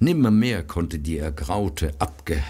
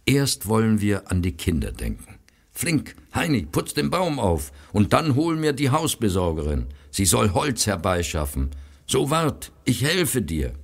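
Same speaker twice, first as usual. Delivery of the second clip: brisk urging; 5 semitones higher than usual. Acted. Brother busily urging the boy.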